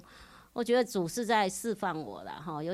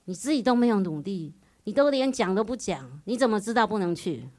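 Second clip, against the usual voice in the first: louder, pointed rebuke; stinging retort; 2 semitones higher, 5 dB louder than usual. Retold or imitated. Husband sharply scolding his wife for not trying. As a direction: jab at her with the words. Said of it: "他就刺痛我".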